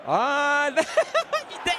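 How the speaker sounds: laughing. Real, not acted. Laughing after the goal.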